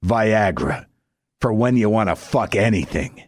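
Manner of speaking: ad announcer voice. Pretend. Comic pitching a fake Viagra ad, announcer voice. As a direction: sell it like a drug commercial voiceover. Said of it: "advertising angle that goes something like this".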